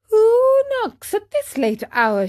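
high-pitched call from a window. Acted. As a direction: call down into the night. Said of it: "she called".

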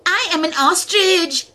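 high, loud bird voice; the ostrich introduces itself to Tuka in a high voice. Acted. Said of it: "said the bird".

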